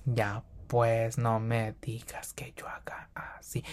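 soft breathy whisper; retold whispered reply; whispered retort. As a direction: hush the protest under your breath. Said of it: "y yo de".

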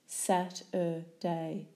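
"Saturday" slowly, syllable by syllable; split into syllables. Shown as a demonstration.

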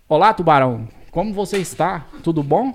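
careful, textbook-correct pronunciation; speaking correctly. Shown as a demonstration. Caipira speaker proves to guests he can talk properly, speaking correctly. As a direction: show off your proper, formal diction. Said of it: "Se eu precisar falar certo".

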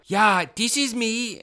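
high, slow mock Asian accent; drawn-out put-on Asian accent. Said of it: "Why are you doing an Asian accent".

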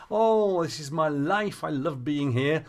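hammed-up gushing, starting high on a drawn-out "Oh"; mock job-loving rapture. Coach acting someone bouncing into work, mock rapture. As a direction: swoon slowly over it, tongue in cheek. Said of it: "Did you go bouncing into work".

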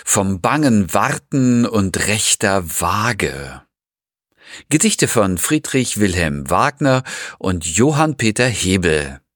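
measured episode title announcement; Podcast-Ansage. Acted. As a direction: announce the title and poets deliberately. (feierliche Podcast-Ansage)

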